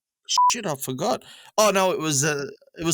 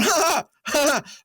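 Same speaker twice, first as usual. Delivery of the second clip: imitated laugh; 13 semitones higher than usual. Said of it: "like, laughing at me".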